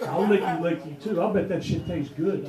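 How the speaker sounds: lightly put-on broken English of an Asian girlfriend, laughing through it; mock broken English. Comic imagining his girlfriend's reply, mock broken English. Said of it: "And she goes".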